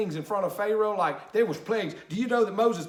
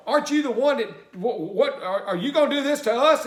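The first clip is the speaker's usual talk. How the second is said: accusing Israelites; 4 semitones higher, 5 dB louder than usual. Retold or imitated. Israelites confront Moses.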